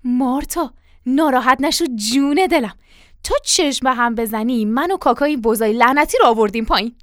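butter up the wife, voice firmly projected; flattering. Acted.

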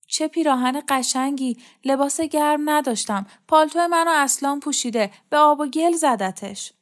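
lightly voiced complaining character. Character dialogue in narrated story.

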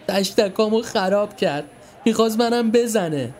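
high, whiny pretend sobbing; fake crying. Milad pretending to cry to his mother, whiny. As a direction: play the victim to Mom. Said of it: "خودشو به گریه زد".

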